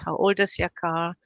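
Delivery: put-on emphasis on OLD in the question; stress on OLD. Shown as a demonstration. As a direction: lean on the word old, not how. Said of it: "the intonation is different".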